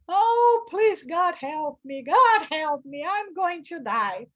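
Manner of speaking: high, loud terrified begging to God; frightened pleading. Retold or imitated. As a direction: beg God for your life in panic. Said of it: "he started screaming as well".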